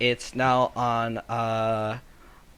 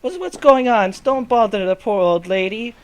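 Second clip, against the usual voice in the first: put-on high, loud indignant girl voice; girl scolding; 9 semitones higher, 5 dB louder than usual. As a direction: protect the poor old lady. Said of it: "It's like, it's like".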